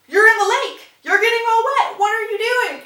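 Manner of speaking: high, loud exclaiming; mock alarmed shout. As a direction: imitate a shocked bystander yelling at someone. Nigel exclaiming at lake mishap.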